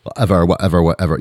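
put-on lazy Valley Girl whatever. Shown as a demonstration. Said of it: "I sound like a Valley Girl".

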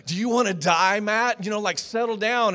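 mildly voiced tough kid telling him to cool it; tough buddy scolding. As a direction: friend stops a fight and warns him. Tough friend scolding after fight.

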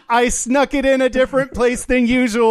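amused, laughing reveal. Real, not acted. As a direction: giggle while springing the surprise. Reveals word of the week laughing.

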